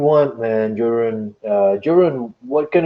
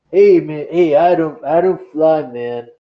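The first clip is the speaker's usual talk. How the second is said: smooth-talking flyboy. Acted. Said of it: "He says".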